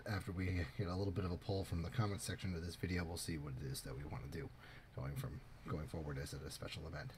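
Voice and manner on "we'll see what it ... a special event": talking around a lollipop; mouth full. Real, not acted. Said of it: "excuse me, I'm eating a lollipop".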